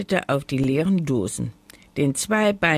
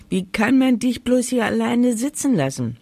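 high-pitched, dismayed exclamation; calling out in pity; 8 semitones higher, 4 dB louder than usual. A narrator's reading. Grandma appalled that the dog was left, exclaiming. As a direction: exclaim in sympathy at the injustice. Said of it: "rief sie".

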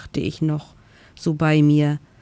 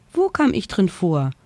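squeaky voice; 3 semitones higher than usual. Acted. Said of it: "fragte eine piepsige Stimme".

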